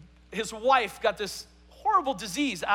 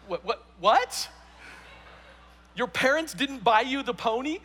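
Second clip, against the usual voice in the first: retold disbelief; 3 semitones higher than usual. Youth leader questioning the crying girl, acted incredulity. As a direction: play stunned at a silly complaint. Leader stunned by pony complaint.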